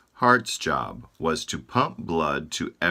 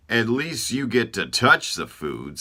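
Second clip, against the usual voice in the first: Eyes whining; 4 semitones higher, 4 dB louder than usual. Acted. Eyes speak.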